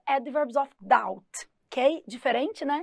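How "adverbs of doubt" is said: adverbs of doubt, slow and deliberate; slow model phrase. Shown as a demonstration. Teacher modelling for students: slow, careful. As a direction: lay out adverbs of doubt word by word. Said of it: "Advérbios de dúvida".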